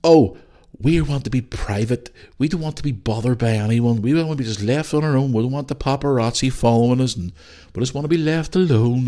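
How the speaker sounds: mocking whiny celebrity voice; lightly voiced mock plea for privacy; mock Harry and Meghan. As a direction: sneer it back like a spoilt celeb. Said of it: "interview crap and go".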